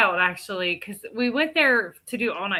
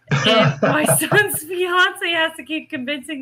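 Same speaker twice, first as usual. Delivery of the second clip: real laughter breaking into the words, higher pitched; laughing while talking; 7 semitones higher, 4 dB louder than usual. Real, not acted. Teller recounts fiance coaxing the nervous son, laughing as she talks. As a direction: tell it through a laugh.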